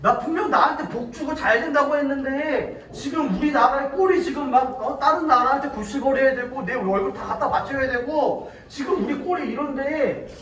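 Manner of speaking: acted fed-up, aggrieved rant; mildly hammed-up exasperation; mock outburst. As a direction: complain indignantly, as if being toyed with. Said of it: "이스라엘 백성들이 빵 터져버렸어요".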